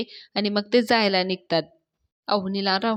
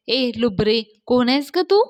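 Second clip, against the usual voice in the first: annoyed challenge; 3 semitones higher, 4 dB louder than usual. Acted. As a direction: demand to know who is calling. Annoyed girl challenges prank caller.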